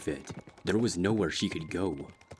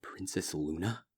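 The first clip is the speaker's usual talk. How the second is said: whisper; 5 dB quieter than usual. Acted. Waking from nightmare, calls out softly.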